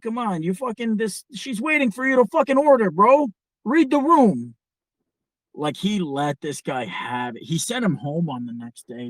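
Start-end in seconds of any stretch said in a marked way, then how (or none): 0.0-4.5 much higher, louder fast mock tirade; imitated angry rant. Italian co-worker berating the nonstop talker, loud mocking rant. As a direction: pile on the sarcasm at him. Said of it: "he finally lost it on Ron".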